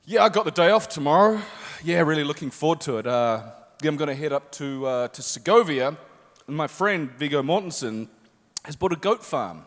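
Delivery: offhand, understated aside; casual. Acted. Actor at the end of press interviews, feigning a casual mention. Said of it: "I just sort of casually say".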